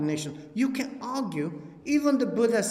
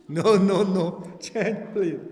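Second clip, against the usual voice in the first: loud refusal; 5 dB louder, slower than usual. Retold or imitated. Patient refuses old heart.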